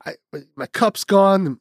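high, slow, mournful imitation of the mother; drawn-out lament, lightly played; mock sad mother. Mother mourning lost cup in bed.

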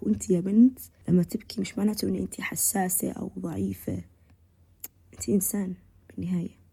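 soft hushed reassurance; gentle whisper. Acted. Speaker reassuring girls that crying is human, whispered. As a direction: whisper it like comforting a girl. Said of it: "tender address to girls".

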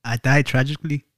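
lightly put-on Irish accent; bad Irish accent. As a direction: attempt an Irish accent, not very well. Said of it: "it's a bad accent".

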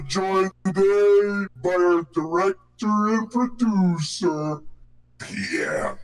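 hoarse, sore throat voice; speaking through a sore throat. Real, not acted. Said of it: "I have a sore throat".

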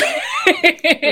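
short high-pitched laugh. Real, not acted.

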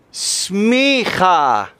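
smicha with a throaty ch like Hebrew. Shown as a demonstration. Preacher teaching the congregation a Hebrew word, throaty ch. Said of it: "Say smicha".

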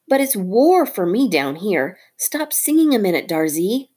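a hint of a fed-up little hero; mongoose hero. Rikki Tikki the mongoose.

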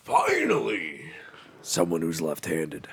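slow, awed whisper. Pretend. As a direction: draw it out, hushed with reverence. Mock awe at left-handed friend.

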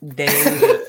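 slow nasal drawl of the name; nasally voice. Pretend. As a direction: stretch it out through the nose, laughing. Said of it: "with your nasally voice".

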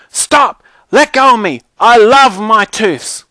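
put-on high, loud little-girl protest; frantic child's yell. A narrator's reading. Brianna struggles to keep her tooths, yelling frantically. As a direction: yell to be let go. Child being grabbed, fighting back.

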